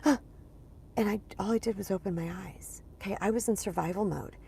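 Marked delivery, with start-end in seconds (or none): 0.0-0.2 sharp gasp waking with a start; startled gasp. Retold or imitated. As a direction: gasp like jolting awake. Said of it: "I'd be like".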